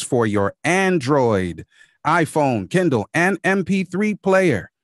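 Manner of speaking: measured radio sponsor read, every word articulated. Pretend. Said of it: "I'm gonna put my radio voice on now".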